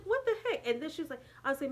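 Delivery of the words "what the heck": retold shock. Retold shock at being dropped off.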